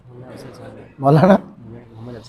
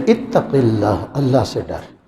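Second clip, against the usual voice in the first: soft plea; 6 semitones lower, 7 dB quieter than usual. Acted. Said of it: "نیچے پڑی ہوئی عورت کہنے لگی".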